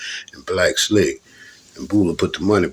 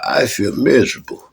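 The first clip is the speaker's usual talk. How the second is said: mock holler; 4 semitones higher than usual. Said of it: "he'd holler".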